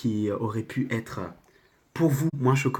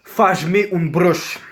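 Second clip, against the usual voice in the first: slow, put-on Portuguese accent; deliberate Portuguese delivery, very slow; Portuguese phrase; much slower than usual. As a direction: draw it out in rough Portuguese. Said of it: "le dire ça dans une autre langue".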